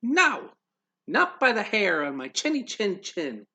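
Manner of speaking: high squeaky little pig refusing. Acted.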